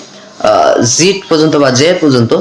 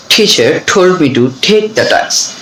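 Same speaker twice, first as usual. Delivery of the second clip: "Teacher told me to take the task" drawn out very slowly; slow practice sentence; much slower than usual. Shown as a demonstration. Teacher reads the t drill sentence very slowly. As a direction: linger on each t. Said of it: "এভাবে কিন্তু আমরা বলবো".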